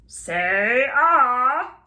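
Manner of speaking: bossy little doctor order; lightly voiced doctor. A narrator's reading. Doctor examining Robert, a lightly voiced order. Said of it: "said the doctor".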